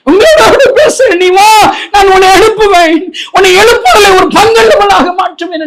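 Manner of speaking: very high, fervent pulpit cry; impassioned preaching. Acted. Preacher voicing God's call to revival, impassioned. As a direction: proclaim it high, as a divine summons.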